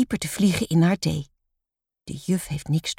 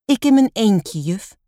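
slightly nervous, higher-pitched pupil; trembling voice; 4 semitones higher, 5 dB louder than usual. A narrator's reading. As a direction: own up with a touch of nerves. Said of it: "hoort zelf hoe haar stem trilt".

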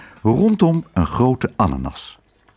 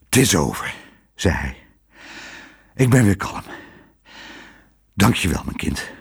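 calm and spent; 5 semitones lower than usual. A narrator's reading. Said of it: "moe maar voldaan".

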